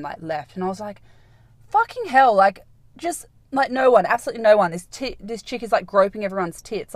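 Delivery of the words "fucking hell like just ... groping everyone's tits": outraged exclamation. Retold or imitated. Retelling outraged reaction.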